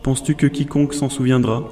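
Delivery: soft, lightly voiced philosophical killer; masked artist musing. Jin lectures the boy on art, soft musing voice. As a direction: muse quietly as a cold artist. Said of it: "demanda-t-il".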